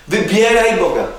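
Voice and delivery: ringing emphasis on WYBIERAJ; preaching cry. Acted. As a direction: cry it out like a summons. Preacher repeating his key phrase.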